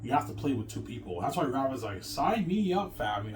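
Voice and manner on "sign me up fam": high, eager sign-up cry; excited Rabbit. Retold or imitated. Friend Rabbit eagerly signing up for the game, excited high voice. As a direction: jump at the offer like an excited friend. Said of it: "he's all excited".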